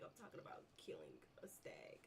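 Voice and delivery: breathy words through giggles; fighting back a laugh; suppressed laughter. Real, not acted. Gamer stifles laughter over a dead stag. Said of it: "I should not laugh".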